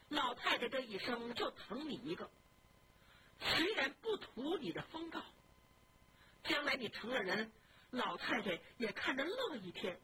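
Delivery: a touch of tears in a gentle rebuke; tearful scolding. Acted. Young wife rebuking her sick husband, tearful.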